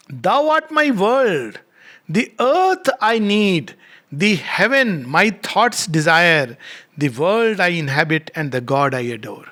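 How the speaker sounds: very slow, stretched-out verse; poem recitation. Acted. Reads poem aloud.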